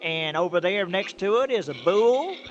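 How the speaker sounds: good-natured country trucker explaining farm animals; folksy trucker. Acted. Trucker explains farm animals to the aliens, folksy and patient.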